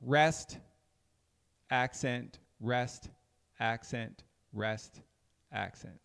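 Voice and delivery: slow, fading chant of rest accent; teacher chanting the beat pattern; rhythm count demo. Shown as a demonstration. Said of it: "So it's like".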